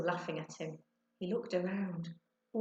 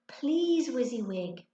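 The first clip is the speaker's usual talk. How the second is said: pleading; 6 semitones higher, 6 dB louder, slower than usual. A narrator's reading. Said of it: "Ben pleaded".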